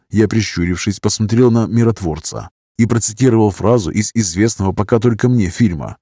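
ordinary delivery, nothing marked

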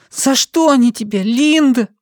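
put-on high little boy voice; child's question. A narrator's reading. The boy asks Linda why they beat her, high and small. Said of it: "the boy asks Linda again".

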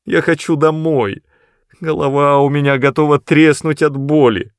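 high, pained pleading; whining plea. Acted. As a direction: beg to go home. Matt pleads. (жалобная мольба)

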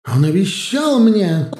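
loud, high shout. Acted. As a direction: scream it at him. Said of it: "кричала принцесса". (крик)

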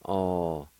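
Alcehiste broken into long, separate syllables; wide pauses between each sound; syllable-by-syllable pronunciation. Shown as a demonstration. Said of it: "It's pronounced like this".

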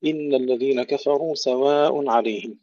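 كفروا with a full heavy emphatic ra; heavy r in kafaru. Shown as a demonstration. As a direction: recite كفروا with the ra made thick. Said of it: "ننتبه دائمًا إلى تفخيم الراء". (تفخيم الراء في كفروا)

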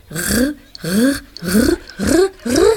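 R rolled in the throat as a French uvular r; teacher demonstrating the French uvular R; French R demo. Acted. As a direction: show the class how a French R sounds. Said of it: "wie man die französische R richtig ausspricht".

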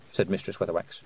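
usual speaking voice

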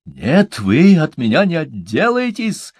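high, loud screech; furious woman shrieking a threat. A narrator's reading. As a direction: screech the threat after them. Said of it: "взвизгнула Тубала".

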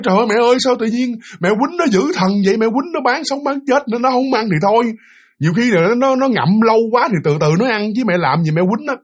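high-pitched reproachful complaint, imitating; retold reproach. Daughter reproaching her mother for the beating, high and upset. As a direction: scold your mother high and pleading. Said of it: "bạn còn trách móc mẹ nữa".

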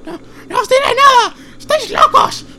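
panicked refusal. Acted. Captive refuses defiantly.

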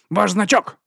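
high, loud, cold command; haughty dismissal. A narrator's reading. Vons taking Vimes's badge, high haughty tone. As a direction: order him off. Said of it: "повторив він".

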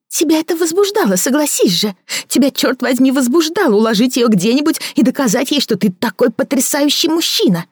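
a bitter woman mocking her lover; Victoria mocking. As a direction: sneer at his fancy words. Victoria taunting.

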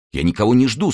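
reply as patience starts to run out; losing patience. A narrator's reading. D'Artagnan answering the leader's questioning, growing impatient. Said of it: "начиная терять терпение".

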